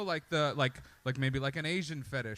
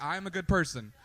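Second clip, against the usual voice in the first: smug self-praise. Retold or imitated. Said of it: "You're like".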